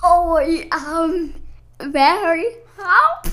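high, unsure go at Australian; hesitant mock-Australian voice; attempted Australian accent. Shown as a demonstration. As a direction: have a shaky try at an Aussie accent. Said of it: "Can you guys do an Australian accent?".

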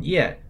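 Ye falling sharply from high; Ye in fourth tone. Shown as a demonstration. Host teaching the tone: Ye falling sharply. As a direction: drop Ye hard. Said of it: "Y E in the fourth tone".

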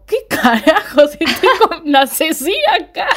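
high, stunned whisper-shout of disbelief; shocked secretary who realises who she's with; shocked coworker. Retold or imitated. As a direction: gasp it out like you just spotted a killer. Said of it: "Y la chica se queda como".

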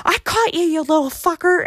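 high, mock-triumphant call; gloating dad. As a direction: imitate Pop crowing at someone he caught. Imitates dad catching hidden actors.

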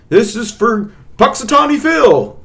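high-pitched pretend toast shout; mock celebratory yell. Podcaster demonstrating a Groundhog Day toast, mock yell. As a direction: yell it out like a drunken street cheer. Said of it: "you have to yell out".

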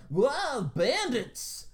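high, loud alarmed cry; high, loud mock panic cry; panicked merchant. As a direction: yell it like a fleeing merchant. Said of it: "he went".

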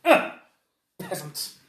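high, loud, whiny noble giving in; snooty surrender. Acted. The noble gives in to the intimidation, whining high and loud. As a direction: give up with a disdainful whine and a shaky laugh. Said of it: "he's like".

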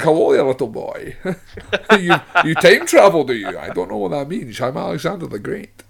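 hammed-up Scottish accent; Sean Connery. Co-host mocking Connery in Time Bandits, Scottish accent impression. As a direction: imitate a Scottish film star playing an ancient king. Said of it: "plays Alexander the Great with a Scottish accent".

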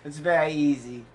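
snobby. Shown as a demonstration. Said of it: "Just be snobby".

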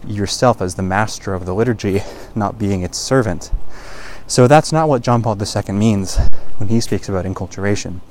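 out of breath from climbing; breathless, walking up a steep hill; running out of air. Real, not acted. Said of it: "I'm running out of breath".

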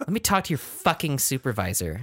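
high snooty demand through a laugh; entitled Karen. Retold or imitated. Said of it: "that's what that sounds like to me".

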